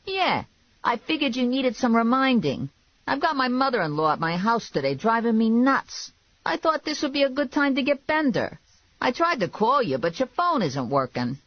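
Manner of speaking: high, insistent character voice; pushy, griping boss. A narrator's reading. Boss demanding she bring in Bender, pushy.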